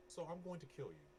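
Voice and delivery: high-pitched taunt, falling away; in-character threat. Acted. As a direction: threaten your foe in character, savoring it. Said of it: "I say this out loud to the guy".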